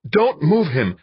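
high loud sharp command; snapped order. Acted. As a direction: cut her off hard. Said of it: "Van Buren snapped".

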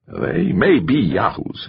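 a scratchy, grating edge. A narrator's reading. Manager warning the candidate, scratchy and grating. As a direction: grate the words like nails on a chalkboard. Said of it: "his voice scratchy as fingernails on a chalkboard".

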